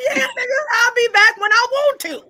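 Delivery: defiant yelling. Real, not acted. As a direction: shout them down with mock outrage. Defiant outburst at the group.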